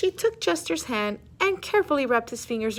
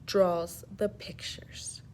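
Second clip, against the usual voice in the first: soft slow whispered answer; whispering; 3 semitones lower, 5 dB quieter, much slower than usual. Acted.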